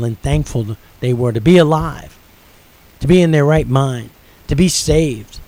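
growing revival intensity; rising preacher fervor. Acted. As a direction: preach it up as the praise explodes. Preaching builds over men's praise.

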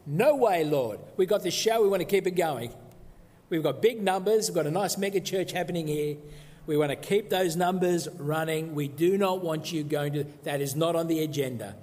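hammed-up disciple telling his Lord off; scolding Peter. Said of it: "Peter scolds Jesus".

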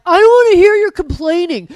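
loud, high, hammed-up telling-off; mock scolding. Mimicking spouse's answer to whining, loud scolding. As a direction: snap it in imitation of a fed-up spouse. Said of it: "you're like".

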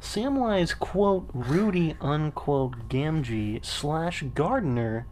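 slow, deliberate newscaster read. Pretend. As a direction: read it like a news anchor. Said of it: "That's my newscaster voice".

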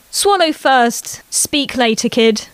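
a mom teaching manners tenderly; gentle chiding. Acted. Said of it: "Becca chided gently".

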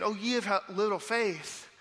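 Jesus soothing his terrified disciples, tender; compassionate. Shown as a demonstration. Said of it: "moved with compassion".

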